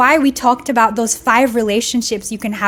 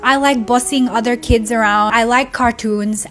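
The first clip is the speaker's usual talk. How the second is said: put-on sing-song la la la, then a light childish voice; carefree little girl. Vlogger voicing her childhood self, lightly childish. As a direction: play yourself as a bossy carefree kid. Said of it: "It's like".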